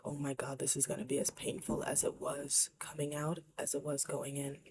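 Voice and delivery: hushed, dreading the pain; fearful whispered thought. Retold or imitated. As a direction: whisper the panic you felt on the table. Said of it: "feeling like".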